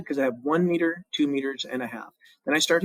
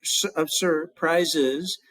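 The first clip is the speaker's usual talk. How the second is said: counting syllables; slower than usual. Shown as a demonstration. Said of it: "and I've got four".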